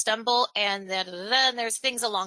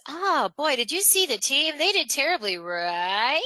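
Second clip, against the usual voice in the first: higher-pitched chatter, RIGHT stretched into a rising question; upturn on right; 4 semitones higher than usual. Shown as a demonstration. Coach mimicking people who overuse right, RIGHT rising at the end. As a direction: gush along and swing RIGHT upward. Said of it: "it really goes up at the end of the sentence".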